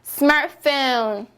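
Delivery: 스마트폰 as English "SMAR-fone", T dropped, drawn out; correct English pronunciation. Shown as a demonstration. Teacher corrects the Korean version, English pronunciation. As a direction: say 스마트폰 slowly in two beats without the "teu". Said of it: "아니죠".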